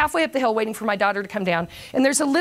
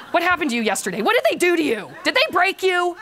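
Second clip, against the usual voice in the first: mock alarm; 6 semitones higher than usual. Acts out baffled colleagues' questions.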